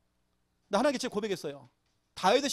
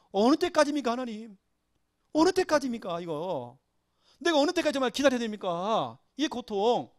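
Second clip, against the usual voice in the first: pleading lament. Acted. Preacher voicing David's confession in suffering, pleading lament. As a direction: cry out the question to God, mildly anguished. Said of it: "다윗이 고백한 겁니다".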